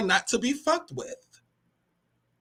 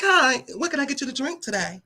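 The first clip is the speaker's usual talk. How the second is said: outside voice; 2 semitones higher, 7 dB quieter than usual. Shown as a demonstration. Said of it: "y'all wanna hear my outside voice".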